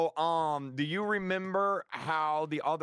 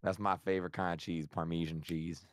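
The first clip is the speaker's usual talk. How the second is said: much lower silly duck voice; 10 semitones lower, 4 dB quieter than usual. Pretend. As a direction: put on a goofy duck voice. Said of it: "Why do you sound like a duck?".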